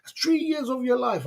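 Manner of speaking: high, slowed, theatrical groan of disbelief; mock exasperated sigh. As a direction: play the fed-up onlooker, hammed-up. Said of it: "It's like".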